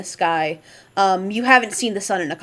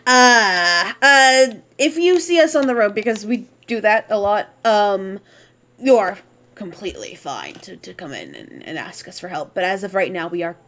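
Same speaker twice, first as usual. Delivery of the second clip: put-on light accent. NPC telling the party they are short on time, understated accent. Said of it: "he's like".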